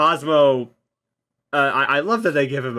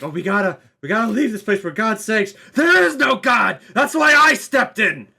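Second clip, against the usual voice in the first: High Evolutionary line; 8 semitones higher, 4 dB louder than usual. Retold or imitated. Fan quoting the High Evolutionary's favourite line, loud grandiose shout. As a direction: proclaim it like a mad god. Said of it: "my favorite line from High Evolutionary".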